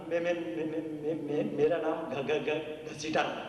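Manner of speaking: imitating a stammer, slow on the name; stammering man. Comedian imitates a stammering man giving his name. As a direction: stutter through the name. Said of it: "तो वो आदमी बोला".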